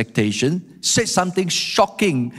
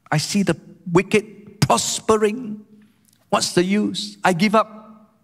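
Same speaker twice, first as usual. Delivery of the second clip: higher-pitched, halting lament, mildly acted; exasperated giving up; 5 semitones higher than usual. Psalmist seeing the wicked prosper, exasperated surrender. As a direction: voice the psalmist at the end of his patience. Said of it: "That's his first inner struggle".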